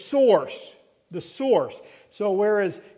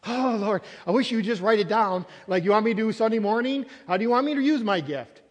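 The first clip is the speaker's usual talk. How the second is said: a touch of exasperated pleading; mock pleading prayer. Believer asking the Lord how to use a gift, pleading. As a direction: press each question with a big stressed opening word. Acted pleading questions to God.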